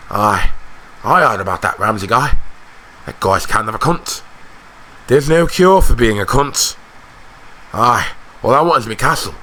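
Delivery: casual, matter-of-fact character voice; blunt grumbling soldier. Acted. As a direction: grumble your opinion offhandedly.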